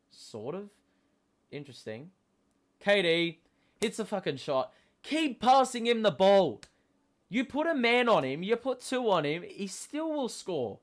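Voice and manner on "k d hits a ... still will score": hyped shouting. Real, not acted. Fan hyping KD's scoring.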